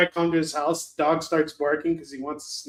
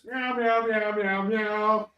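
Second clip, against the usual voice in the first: higher, playful run of meows; cat impression; 4 semitones higher, slower than usual. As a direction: mew like a cat, drawn together. Playfully imitating cats.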